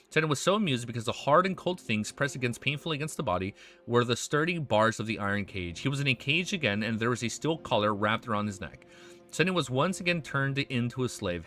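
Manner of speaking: steady, measured novel reading; story narration. A narrator's reading. Streamer reads dark fantasy to viewers, in story narration. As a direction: read the tale aloud, falling at sentence ends.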